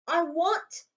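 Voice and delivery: put-on eager boy cut off; a hint of young Harry; Harry begins. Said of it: "he began".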